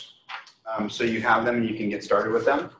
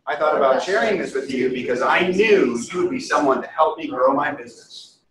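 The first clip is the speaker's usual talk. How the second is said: higher, louder and energetic, nearly shouting; enthusiastic; 3 semitones higher, 4 dB louder than usual. Shown as a demonstration. Agent reads the script standing, with enthusiasm. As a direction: sell it standing up, full of energy. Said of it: "With as much enthusiasm".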